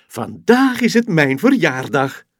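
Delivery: loud, high, joyful shout; happy loud call. Acted. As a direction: announce it to the whole rocket. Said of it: "roept ze luid".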